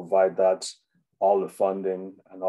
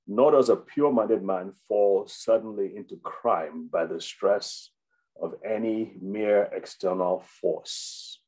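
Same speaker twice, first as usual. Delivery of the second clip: slow, emphatic reading of a quotation; quote reading. Real, not acted. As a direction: read the quote out deliberately, weighing each phrase. Reads a quotation aloud.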